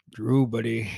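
lightly voiced movie catchphrase, dropping on "buddy"; Pet Sematary impression. Friend quoting a running Pet Sematary bit, light impression. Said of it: "from Pet Sematary".

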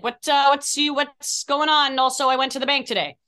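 high, loud, rambling castmate voice, rushing at the end; hammed-up distracted actress; imitating Kat. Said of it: "And Kat will be like".

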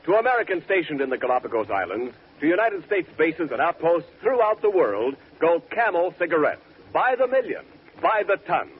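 smooth radio announcer read. Acted. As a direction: sell it like a sponsor spot. Commercial read after show.

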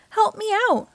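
cry for help. A narrator's reading. Stuck seahorse calling friends for help, crying out. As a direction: call out while stuck fast. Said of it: "When she cried".

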